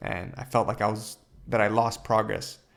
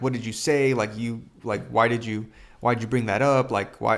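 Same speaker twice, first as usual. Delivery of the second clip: retold confrontation, somewhat louder; losing it, retold; 5 dB louder than usual. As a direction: demand answers, mildly worked up. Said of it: "I almost lost it on my mom".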